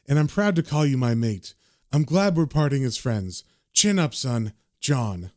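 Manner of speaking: a hint of a resigned man signing off; John reading his note. John says goodbye to his friend in a note, lightly acted and subdued. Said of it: "And then the note says".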